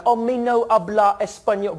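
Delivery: mangle the Spanish like a clueless tourist; worst Spanish accent. Shown as a demonstration. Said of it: "in the worst way you can".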